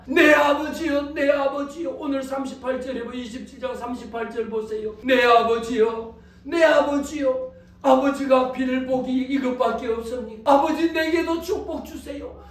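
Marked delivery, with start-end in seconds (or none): 0.1-1.9 wailing plea. Acted. Esau calling out to his father, wailing. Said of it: "에스가 와가지고 통곡합니다". 5.0-12.4 acted tearful plea, climbing higher as it goes; crying out. Son begging his father for a blessing, crying out. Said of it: "소리쳐 웁니다".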